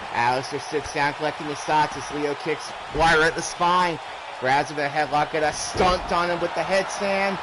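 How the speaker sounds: rapid live ringside play-by-play; wrestling commentator. Real, not acted. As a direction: call every move as it lands.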